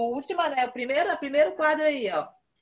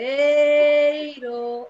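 slow syllable demo; 3 semitones higher, 7 dB louder, much slower than usual. Shown as a demonstration. Teacher sounding out a word for pupils, slow and loud. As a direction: draw out Tabuleiro slowly and loudly, syllable by syllable. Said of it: "nós não falamos primeira".

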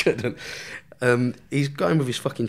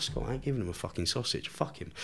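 hushed reply; 11 dB quieter than usual. Retold or imitated. Hushed reply to mate's aside.

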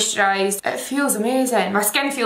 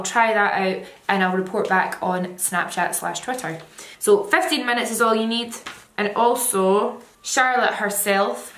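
face covered by mask; through a sheet mask. Real, not acted. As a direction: mouth through mask hole. Seen 5: White sheet mask covers whole face, mouth opening; removed near 28-30s.

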